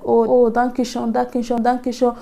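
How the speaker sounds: mildly excited, quick repeated thanks. Retold or imitated. Mother-in-law receiving the flowers, mildly excited imitation. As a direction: lightly imitate a delighted, gushing thank-you. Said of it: "She was so excited".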